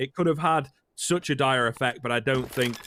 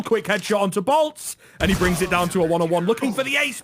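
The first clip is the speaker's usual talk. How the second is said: excited; 5 semitones higher, 4 dB louder than usual. Real, not acted. Caster calling a near ace.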